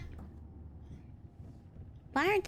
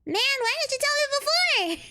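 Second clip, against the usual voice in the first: laughing disbelief; 10 semitones higher, 5 dB louder than usual. Real, not acted. Kid to dad who hid the reason, laughing exasperated whine. Exasperated at the dad's late news.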